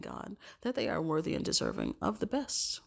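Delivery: hushed, breathy prayer whisper. Real, not acted. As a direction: drop to a whisper for God. Whispered line inside prayer.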